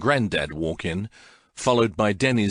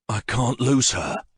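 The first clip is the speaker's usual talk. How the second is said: choked out; 3 semitones higher, slower than usual. Acted. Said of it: "I choke out".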